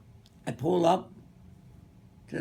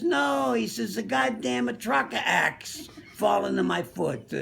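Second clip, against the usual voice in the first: put-on Italian accent; 5 semitones higher than usual. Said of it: "Tony was a little Italian guy".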